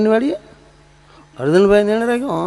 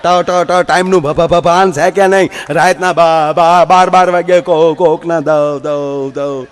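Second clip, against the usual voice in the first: doctor scolding, stuck on every syllable; stammering doctor; 4 dB louder, slower than usual. Retold or imitated. Stammering doctor scolding a late-night patient, mild stutter. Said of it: "ઈ મને મીડા ખખલાવે કે".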